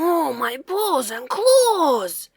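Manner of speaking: slow mock-frightened cry; mild alarm. Startled bear at reflection, mild fright. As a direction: gasp it out in fright. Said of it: "cried the large and growly bear".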